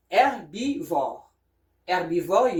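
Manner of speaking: "herbivore" starting on the open E, no H; French silent H. Shown as a demonstration. Teacher gives another example word, "herbivore" with silent H. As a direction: say "herbivore" as air-bee-vor. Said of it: "you don't hear the H here".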